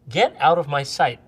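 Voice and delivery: loud firm "Get out of my sight"; retold angry order. Retelling ordering Dan out, angry. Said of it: "I turned to him and I said".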